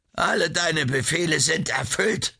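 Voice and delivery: high, lightly panted announcement; gasping report. A narrator's reading. Happy wife reporting back to her lover, high and lightly gasping. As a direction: blurt it out high, a touch breathless. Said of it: "keuchte die Frau".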